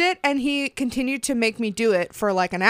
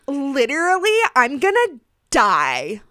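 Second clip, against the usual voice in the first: dramatic contestant. Retold or imitated. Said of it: "everything that comes out of".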